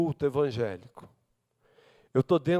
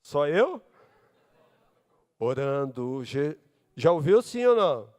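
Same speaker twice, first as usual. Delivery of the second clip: ordinary talk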